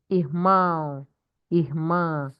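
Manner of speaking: Irmão with a nasal "ão", irmã ending on a nasal "ã"; nasal contrast demo. Shown as a demonstration. Teacher contrasting Irmão and irmã for the class, slow and clear. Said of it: "the difference between brother and sister".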